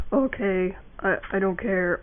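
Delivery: low, soft, careless okay; don't-care voice. Shown as a demonstration. Showing a cool anime boy, soft and uncaring. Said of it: "talk kinda like you don't care".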